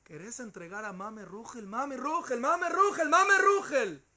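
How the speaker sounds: building from a pleading question to a howling, tearful scream; desperate tearful shout, rising to a full scream; shouting while crying. Retold or imitated. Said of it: "Gritaba y lloraba".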